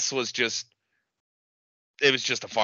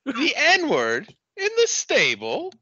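high, slow, crying with laughter; laughing so hard the voice cracks; much slower than usual. Real, not acted. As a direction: squeak it out through laughter. Laughing repeat of the line.

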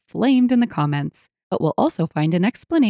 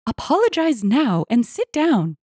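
higher, scolding wife; mild narrated scream; 6 semitones higher than usual. A narrator's reading. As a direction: order your husband to behave. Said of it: "his wife screamed again".

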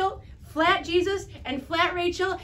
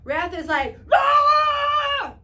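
angry yell demo; 10 semitones higher, 6 dB louder, much slower than usual. Shown as a demonstration. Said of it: "Do you know what wrath is".

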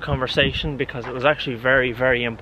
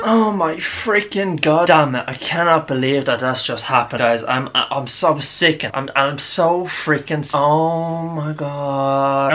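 slow, louder, fed-up groan; exasperated; 3 dB louder, slower than usual. Real, not acted. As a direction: drag out the frustration. Something just happened, exasperated.

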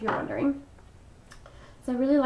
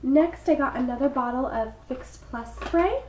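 stuffy froggy voice. Real, not acted. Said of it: "I sound so sick and horrible".

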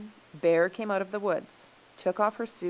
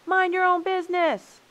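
even higher-pitched, loud retort; shrieky raised-voice rebuff; indignant shout; 13 semitones higher, 9 dB louder than usual. A narrator's reading. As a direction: fling it back in a high shout. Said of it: "shouted the human beings".

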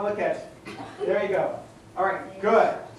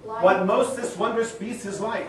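slow, deliberate feeding of the line; slow line reading; 3 dB quieter than usual. Shown as a demonstration. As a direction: say it slowly for him to repeat.

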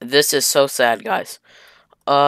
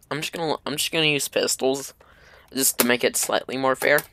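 whisper; 6 dB quieter than usual. Real, not acted. Aside while switching weapons.

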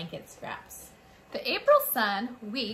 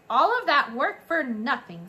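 higher, louder theatrical lament; dramatic complaint; 4 semitones higher, 7 dB louder than usual. A narrator's reading. French mother mouse lamenting the dead litter, theatrical moan. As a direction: moan it like a diva. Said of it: "She sighed".

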